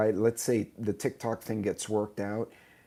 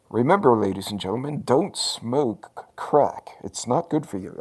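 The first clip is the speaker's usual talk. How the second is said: hammed-up retro announcer warning the viewers; old PSA announcer; 2 semitones higher, 7 dB louder than usual. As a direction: deliver it like a solemn seventies TV host. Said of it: "I should be wearing a suit and tie".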